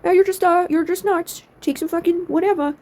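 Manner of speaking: high, sing-song brush-off of a patient; mocking dismissive doctor. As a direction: sneer it like a doctor waving her away. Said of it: "And they're like".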